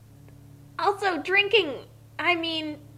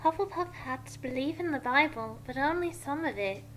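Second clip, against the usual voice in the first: casual explanation; 5 dB quieter than usual. Acted. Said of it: "Luna explained casually".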